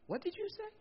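high, astonished falsetto; surprised wife. Retold or imitated. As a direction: gasp it out in disbelief. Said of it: "And she went".

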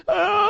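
a high, startled mock scream; mock shriek. Wife shrieking at the bloody cut, high mock scream.

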